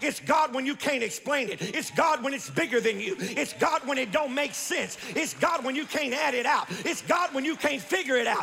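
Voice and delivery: rhythmic, building sermon refrain; fervent preaching. Real, not acted. Preacher telling congregation when God shows up, fervent preaching. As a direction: drive each phrase home like a revival preacher. Preaches in driving repeated phrases.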